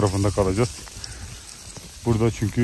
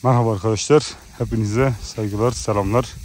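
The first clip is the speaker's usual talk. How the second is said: yokuş çıkmaktan soluk soluğa; out of breath greeting; nefes nefese. Real, not acted. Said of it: "biraz nefesim kesildi". (nefes nefese selam)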